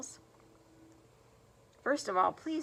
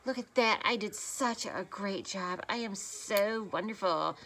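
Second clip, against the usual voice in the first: mock arrogant bragging. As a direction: gush over yourself like a vain beauty guru. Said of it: "I'm never gonna say".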